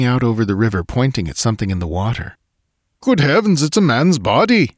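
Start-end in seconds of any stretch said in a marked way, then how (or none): 3.0-4.7 very high-pitched alarmed exclamation; excited cry. A narrator's reading. Swede pointing at something in the water, crying out excitedly. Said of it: "he cried excitedly".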